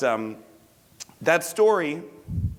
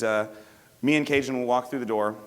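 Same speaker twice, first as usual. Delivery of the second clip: ordinary talk, nothing marked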